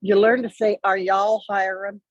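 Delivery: put-on Southern accent. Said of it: "he's got this wonderful Southern accent".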